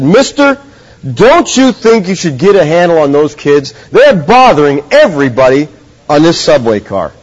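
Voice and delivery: a stranger losing his patience, lightly acted; angry retold rebuke. Angry passenger on the subway snaps at the father, mildly acted. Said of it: "so angry with the irresponsibility".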